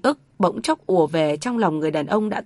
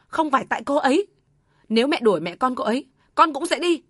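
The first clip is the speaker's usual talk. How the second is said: raised, high heated insistence; heated denial; 5 semitones higher, faster than usual. Acted. Son threatening to leave with his wife, heated. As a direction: say it hotly, still shouting. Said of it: "Việt quát lớn".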